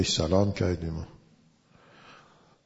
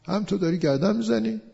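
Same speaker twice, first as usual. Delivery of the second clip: put-on old man's rebuke; 6 semitones higher than usual. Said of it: "old man said".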